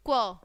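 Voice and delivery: क्व as "kwuh", blend plus short vowel; letter sound demo. Shown as a demonstration. Teacher showing the sound of Q, letter sound demo. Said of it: "क्यू की sound आएगी".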